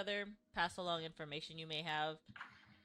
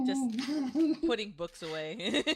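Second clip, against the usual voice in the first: innocent NPC voice; 6 semitones higher, 7 dB louder, slower than usual. Acted.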